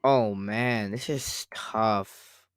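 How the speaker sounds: ordinary talk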